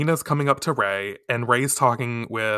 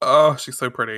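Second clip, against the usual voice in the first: normal talking voice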